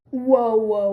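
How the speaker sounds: loud, urgent whoa; loud interruption. Acted. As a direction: cut her off loudly. Interrupting to stop her.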